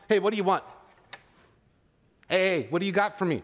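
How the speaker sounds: put-on a pushy, impatient kid's demand; the bad example a pastor acts out, sassy and pushy. Shown as a demonstration. Mock-sassy kid. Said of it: "He doesn't respond".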